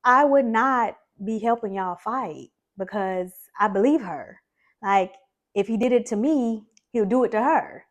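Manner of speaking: refusing mom's request to fight, firm and loud. Retold or imitated. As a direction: stand your ground against mom. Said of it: "And I'm like".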